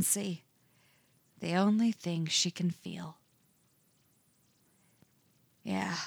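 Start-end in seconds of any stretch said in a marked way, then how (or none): 5.6-6.0 a soft, soothing yeah; calm her down gently with this word. A narrator's reading. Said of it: "he soothes, voice low and scratchy".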